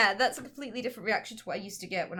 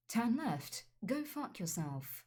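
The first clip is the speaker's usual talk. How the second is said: mock GPS voice; 2 semitones lower, much slower than usual. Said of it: "they just end up going".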